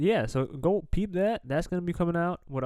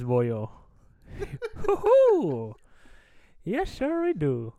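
put-on Irish accent. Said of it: "where we talk in accents".

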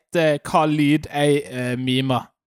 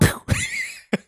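very high imitated noise; mouth-made sound effect; 3 dB quieter than usual. Shown as a demonstration. Host makes a noise for others to guess, imitated effect. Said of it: "Hvordan ville dere lage den lyden".

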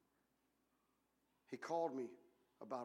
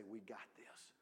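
smug aside; 7 semitones lower, 12 dB quieter than usual. Retold or imitated. Mocking self-reliant believers.

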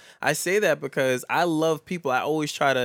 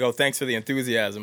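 sarcastic. Retold or imitated. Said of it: "I'd be like".

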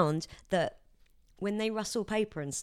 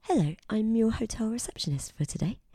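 ASMR receptionist; 4 semitones higher than usual. Retold or imitated. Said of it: "She's like".

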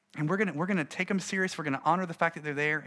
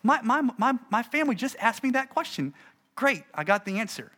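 imitating an excited churchgoer, higher and louder on "my family"; rising mock excitement as it dawns on them; eager listener; 4 semitones higher, 3 dB louder than usual. Churchgoer realising the sermon answers her family's question, mock excited. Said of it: "They are sitting there going".

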